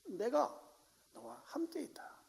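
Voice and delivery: soft unvoiced whisper. God assuring Elijah he is near, whispered. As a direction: breathe it close to the ear. God's words to Elijah, hushed.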